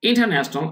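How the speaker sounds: "international" with the R left silent; silent R pronunciation. Shown as a demonstration. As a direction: say "international" as in-ta-nash-nal, R dropped. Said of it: "আর এই উচ্চারণটা হবে না".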